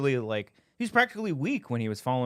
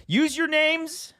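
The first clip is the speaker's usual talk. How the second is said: zombie; 5 dB louder, much slower than usual. Pretend. Zombie game setup, drawn out.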